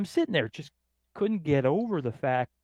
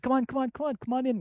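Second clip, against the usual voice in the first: eager urging; 12 semitones higher, faster than usual. Retold or imitated. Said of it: "She's like".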